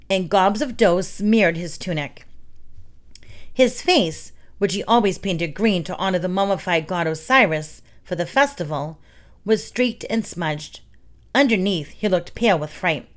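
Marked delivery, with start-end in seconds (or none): none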